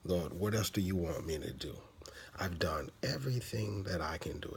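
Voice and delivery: a hint of a beaten-down prophet; mock despair. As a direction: whisper it as a worn-out complaint. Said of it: "serious case of".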